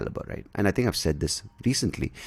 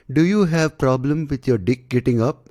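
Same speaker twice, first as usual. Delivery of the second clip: blunt ad pitch; 7 semitones higher, 4 dB louder than usual. Retold or imitated. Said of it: "they don't say it obviously like that".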